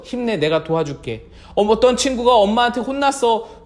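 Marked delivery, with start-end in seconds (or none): 0.0-1.2 low, gentle encouragement; soothing acted reassurance; consoling. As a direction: comfort a disheartened friend softly. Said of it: "위로해주면서".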